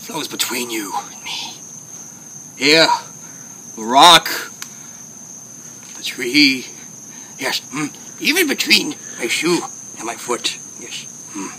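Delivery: lightly voiced wise old puppet master, unhurried; country Yoda. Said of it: "I said country Yoda".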